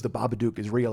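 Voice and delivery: low, soft imitation of wife; deadpan tease. Wife needling husband about his story, deadpan tease. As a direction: drop it in quietly, deadpan. Wife's deadpan teasing line.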